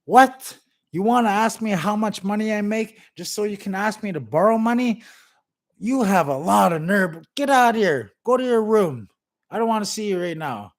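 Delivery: loud, high, outraged father yelling; angry dad. Retold or imitated. Dad yelling at his son for asking money. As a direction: blow up at your son over money. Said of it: "And the dad says".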